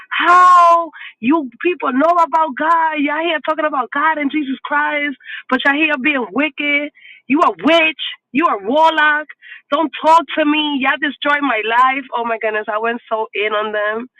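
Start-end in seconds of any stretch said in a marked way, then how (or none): 0.1-12.1 retold angry outburst. Angry rant at parents, retold.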